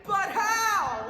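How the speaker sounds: hammed-up amazement. Cohost begging to know how it works, hammed-up amazement. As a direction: gasp it out like a cheesy cohost.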